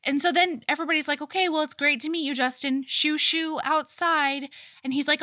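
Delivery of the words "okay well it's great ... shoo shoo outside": higher-pitched mock social pleasantry, shooing someone off; brisk polite dismissal. Everybody sends Justin outside, brightly dismissive. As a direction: imitate a host politely getting rid of a guest.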